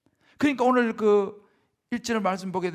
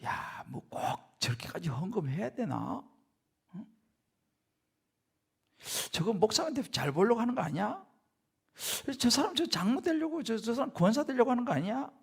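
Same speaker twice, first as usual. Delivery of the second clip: grudging murmur; 5 dB quieter than usual. Acted. Voicing churchgoers' private grudging thoughts.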